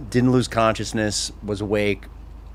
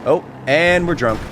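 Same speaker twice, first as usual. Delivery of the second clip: giggly, tipsy laughter through the words; laughing tipsy; 5 semitones higher than usual. Real, not acted. Gamer laughing at being drunk in game. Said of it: "I should not be laughing".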